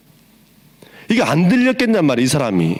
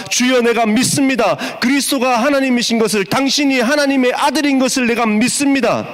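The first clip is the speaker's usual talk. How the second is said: fervent confession; 7 semitones higher than usual. Acted. Paraphrases the blind man's confession.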